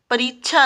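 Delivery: परीक्षा with च्छ for क्ष, "pareechchha"; mispronunciation demo. Shown as a demonstration. Teacher rejects the wrong form for children, mispronounced. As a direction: say परीक्षा as "pa-reech-chhaa". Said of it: "परीक्षा नहीं".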